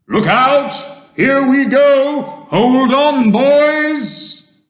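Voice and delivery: high, loud yelled warnings; full-voiced high cries; excited shouting. A narrator's reading. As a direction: yell for everyone to brace. Crew yelling as peach rises.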